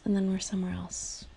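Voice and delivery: breathy whisper of the repeat. Real, not acted. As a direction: let the repeat fade to a whisper. Repeats phrase, second fades.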